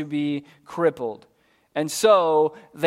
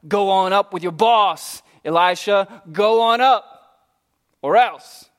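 louder, taunting jeer; mock threat; 4 dB louder than usual. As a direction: menace the young prophet. Scoffers voiced threatening Elisha.

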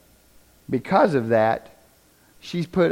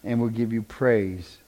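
prayer. Real, not acted. Pastor prays over the congregation, earnestly. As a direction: pray over the room with conviction.

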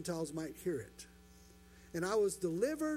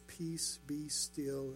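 calm command; 5 semitones lower, 4 dB quieter, much slower than usual. Acted. Jesus calming the storm.

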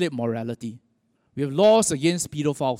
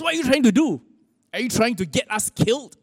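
higher-pitched mock yell at the driver; retold scream; 5 semitones higher than usual. Tourist to speeding taxi driver, mildly acted scream. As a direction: imitate an alarmed passenger's protest, without full volume. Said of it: "screamed at him".

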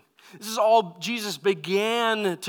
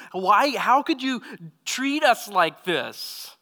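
higher, louder, then drawn out slowly; a mother's panicked reproach, dragging the last words; frantic mother; 3 semitones higher, 4 dB louder, slower than usual. Retold or imitated. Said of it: "this frantic looking of Mary".

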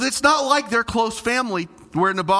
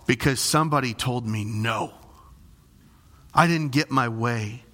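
put-on whiny child; 7 semitones lower than usual. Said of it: "That's the message he's sending".

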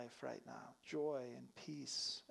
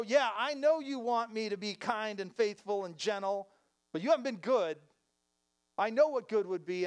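aggrieved complaint; 4 semitones higher, 9 dB louder than usual. Retold or imitated. Complaining self voiced as grievance.

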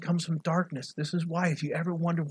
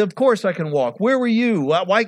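loud, higher, indignant retort; yelling back; 4 semitones higher, 6 dB louder than usual. Retold or imitated. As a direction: act out yelling back at the priests. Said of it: "he's probably yelling it back".

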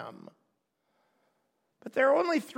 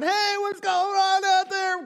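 much higher, louder call from the back of a jam; an annoyed driver shouting up the line; impatient driver; 10 semitones higher, 5 dB louder than usual. Retold or imitated. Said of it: "the guy in the back is going".

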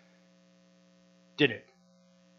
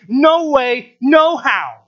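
preacher voicing the crowd's outraged objection; emphatic no way; much slower than usual. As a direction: slam the door on the idea.

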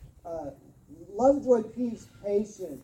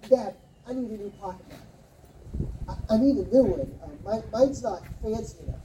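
put-on pleading kid; faster than usual. Kid asking dad for knife.

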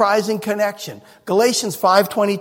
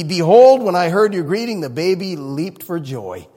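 loud joyful cry. Retold or imitated. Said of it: "She cried out with a loud voice".

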